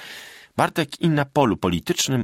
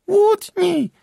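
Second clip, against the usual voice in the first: very high, loud piercing cry; shrill squeak; 7 dB louder than usual. A narrator's reading. Magda in the darkened tavern, shrill cry. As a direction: screech it from the dark. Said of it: "piskliwy głos Magdy".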